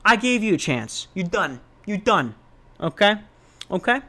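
lightly hammed detective closing in; cracking the subject. Shutting down the lying visitors, mock interrogator. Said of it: "get the subject to crack".

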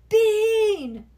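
loud, high, drawn-out call. A narrator's reading. Someone calls Bean away from playing, loud calling out. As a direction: holler for a child across the yard.

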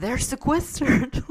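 imitating a Russian father, puzzled; Russian dad. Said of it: "my dad's Russian".

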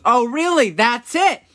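high, loud mom outburst; flipping out. Retold or imitated. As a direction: imitate a mom losing her patience. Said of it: "She starts flipping out".

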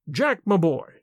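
put-on an old man, moved, his voice unsteady; barely holding it together; shaking voice. A narrator's reading. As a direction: voice trembling with emotion. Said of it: "His voice shook".

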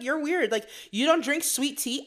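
loud, high exclaiming; hammed-up family calling her weird; mock family teasing. Family teasing her for not drinking sweet tea, loud and high.

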